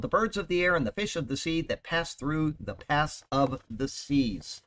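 measured, solemn reading of the psalm; scripture reading. Acted. Host reads the psalm to radio listeners, in a solemn measured reading voice. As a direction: read it like Scripture from the pulpit.

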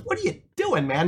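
high-pitched rude challenge, retold. Homeless man challenges a stranger kicking rocks, rudely. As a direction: imitate a rude guy challenging someone. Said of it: "he's kinda vulgar".

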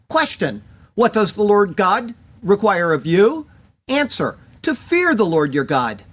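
ordinary talk, nothing marked

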